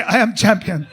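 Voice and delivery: put-on laughing Middle Eastern accent boast; bragging accent. Quoting Tawfiq again, he boasts in a Middle Eastern accent. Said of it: "He used to say".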